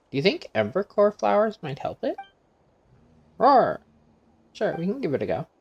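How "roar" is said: higher, louder beast roars building up; eager little saurian roaring; excited creature roars. Acted. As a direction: roar eagerly like a small dinosaur. Saurian replying.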